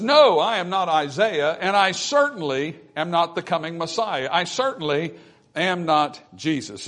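a firm, punched NO, then insistent denial; emphatic denial. Acted. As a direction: deny it emphatically, leaning on the first "No". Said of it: "is an emphatic no".

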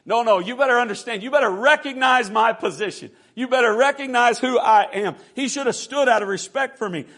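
wounded pride at pulpit force; indignant demand. Acted. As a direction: demand recognition, punching each line. Naaman demands respect.

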